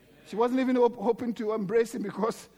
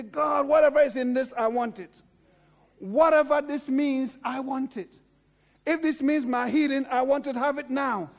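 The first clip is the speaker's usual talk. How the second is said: loud, pleading prayer, slowing on each plea; fervent prayer; 3 semitones higher, 4 dB louder than usual. Shown as a demonstration. Preacher models a prayer for the congregation, loud and fervent. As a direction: cry out your wants to God. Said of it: "it is the time for you to say".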